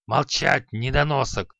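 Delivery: put-on old master snarls at his beaten student; growled. Teacher Халай growls angrily at Креол. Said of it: "зарычал Халай".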